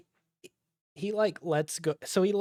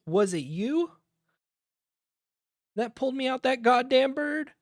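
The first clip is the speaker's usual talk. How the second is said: shouted, higher pilot's voice with a different timbre; gruff old pilot; 10 semitones higher, 6 dB louder than usual. Acted. Old pilot demanding answers from his rescuers, loud and high. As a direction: bellow it like a grizzled flyer who's just been rescued.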